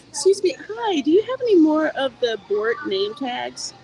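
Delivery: polite clerk voice. Real, not acted. Polite call to shop clerk.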